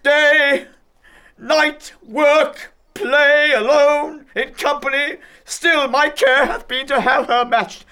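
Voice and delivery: high and loud, hammering each word; furious rant. Acted. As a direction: spit out each grievance. Father ranting about his daughter.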